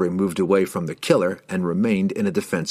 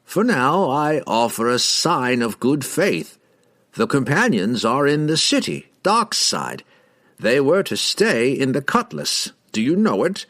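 higher, lilting wizard voice; sly, high-pitched confiding delivery; scheming wizard; 6 semitones higher than usual. A narrator's reading. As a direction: offer the secret with theatrical largesse. Wizard offers information to assassin.

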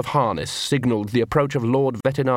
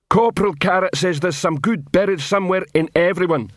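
troll voice; 7 semitones higher than usual. Acted. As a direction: speak like a good-hearted troll. Troll Detritus speaks.

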